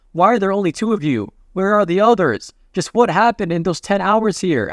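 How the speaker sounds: retold concern in rising urgency. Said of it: "'cause he's really concerned".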